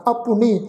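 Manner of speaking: ਆਪੁਨੀ as a-pu-ni; sounded short u. Shown as a demonstration. Teacher corrects the reading, ਆਪੁਨੀ with audible u. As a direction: give the u after p in ਆਪੁਨੀ its own beat. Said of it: "ਔਂਕੜ ਦਾ ਵੀ ਉਚਾਰਨ ਕਰਨਾ ਵਾ".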